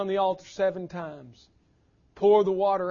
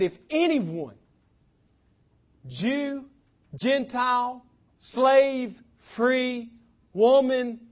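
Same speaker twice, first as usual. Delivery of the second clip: higher, louder, each word flung out; rising preaching call; 5 semitones higher, 4 dB louder, slower than usual. Acted. Preacher to congregation, calling out everyone, loud and high. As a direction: build the list like a sermon climax. Preaching at full force, listing people.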